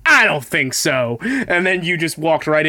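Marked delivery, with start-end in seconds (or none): 0.1-1.2 slow, smug dismissal; lightly hammed-up cocky quote; mock confident. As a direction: drawl it like you know better. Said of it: "And you were like".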